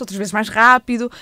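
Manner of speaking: picking up the pace a little. Shown as a demonstration. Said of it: "falar com vários ritmos".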